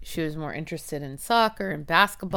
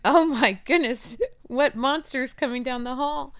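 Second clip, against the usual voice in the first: mock alarm; 8 semitones higher than usual.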